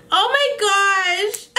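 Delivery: high, drawn-out wail on the edge of tears; tearful, overwhelmed. Real, not acted. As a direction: stretch it out, about to cry. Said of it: "I don't wanna cry right now".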